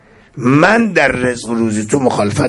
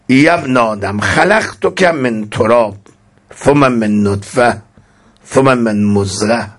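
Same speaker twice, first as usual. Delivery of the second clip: recited scripture. Acted. Recites Arabic hadith text.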